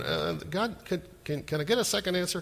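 soft, halting question to God; tentatively ask, stumbling into it; mock-timid stammered prayer; hesitant request. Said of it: "you're going".

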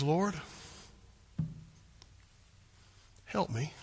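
soft, quiet, simple plea; humble plea. Shown as a demonstration. Kneeling woman begs Jesus humbly, soft and quiet. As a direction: bring it down to a humble whisper of need. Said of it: "Bring it down".

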